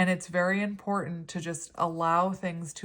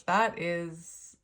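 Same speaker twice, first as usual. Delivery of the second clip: whisper. Real, not acted. Awed whisper over tarot card.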